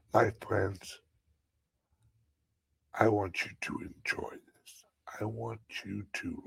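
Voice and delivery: hushed guided savoring. Acted.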